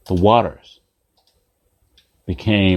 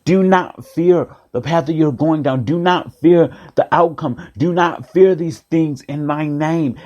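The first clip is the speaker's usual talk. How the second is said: raised-pitch, drawn-out exhortation; calling out; 4 semitones higher, slower than usual. Acted. God calls out to his frightened people, raised insistent call. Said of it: "God calls out to us".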